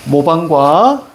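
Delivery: "모방과" very slow, ending stretched; demonstrated phrase reading. Shown as a demonstration. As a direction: hold the last syllable of "모방과". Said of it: "이렇게 읽어야지".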